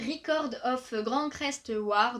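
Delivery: the English title read with a light, hammed-up English accent; self-mocking English accent. Manga vlogger naming a new release in a mock English accent. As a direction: show off your mock English accent on the title, only a touch. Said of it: "vous avez vu mon magnifique accent anglais".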